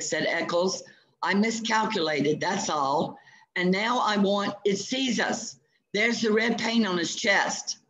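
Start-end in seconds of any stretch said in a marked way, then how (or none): 1.2-7.8 backing away from a monster; frightened. Acted. Eccles panics before T-rex.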